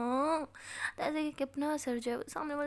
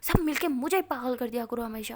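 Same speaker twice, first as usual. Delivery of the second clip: rising, louder furious complaint; angry rant; 5 dB louder than usual. Acted. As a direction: vent the hurt at them. Angry outburst at friends.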